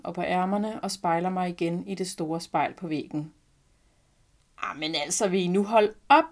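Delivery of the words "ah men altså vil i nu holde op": exclamation building to a louder finish; squealing grandmother. A narrator's reading. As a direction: mildly squeal in delighted disbelief. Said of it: "hviner min farmor".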